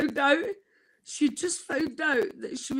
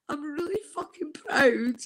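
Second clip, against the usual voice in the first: tearful. Real, not acted. Proud of academy invitation.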